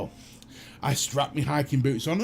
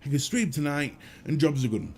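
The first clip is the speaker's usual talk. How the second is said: relieved; 2 semitones higher than usual. Retold or imitated. Inner relieved quote.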